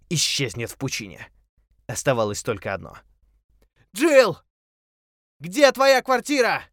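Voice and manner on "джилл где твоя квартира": high, loud, slow shout; shouting over a waterfall. A narrator's reading. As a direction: yell over the roaring water. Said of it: "закричал он, перекрывая грохот водопада". (крик сквозь грохот водопада)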